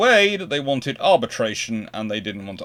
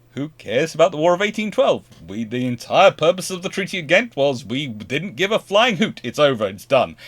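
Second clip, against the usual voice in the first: raised, insistent arguing; mock exasperation; 5 semitones higher, 5 dB louder than usual. British brushing off the War of eighteen twelve, exasperated. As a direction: argue back as if fed up.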